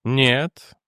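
composed one-word answer; calm. A narrator's reading. Jannek refusing Edwards any assurance, calm. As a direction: answer without any agitation. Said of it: "спокойно ответил Дженнек".

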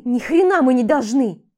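loud angry shout. Acted. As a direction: yell it back at him. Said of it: "крикнула я". (громкий злой крик)

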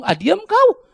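loud, high scolding rebuke; Tuhan. Acted. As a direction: rebuke a false claimant at full voice. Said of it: "Tuhan bingung".

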